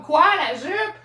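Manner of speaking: loud, high shocked question; hammed-up surprise, pitched high; re-enacted disbelief. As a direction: play the startled double take. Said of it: "Je fais comme".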